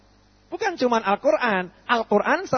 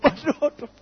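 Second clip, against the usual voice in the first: laughing aduh; 6 semitones higher than usual. Acted. Preacher laughing at a traveller's bad choice of driver. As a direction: laugh through a mock dismayed aduh.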